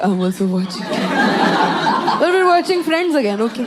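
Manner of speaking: odd small creature voice; timid eager lizard; shy lizard voice. Acted. Lizard joining TV time, timid creature voice.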